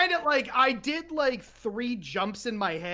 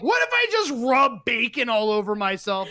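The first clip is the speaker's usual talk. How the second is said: mock shout; 2 semitones higher, 4 dB louder than usual. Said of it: "So I was like".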